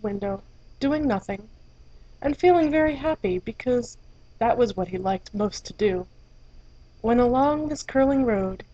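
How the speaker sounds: gentle storybook reading voice; story narration. A narrator's reading. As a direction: read it like a bedtime story. Reads fairy tale aloud.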